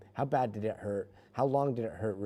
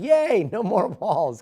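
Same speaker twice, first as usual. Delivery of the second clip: "Yay, no more walls" cheered high and much louder, slowly; mock team cheer; 11 semitones higher, 12 dB louder, slower than usual. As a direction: impersonate the gleeful crew, slow and bright. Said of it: "The team was like".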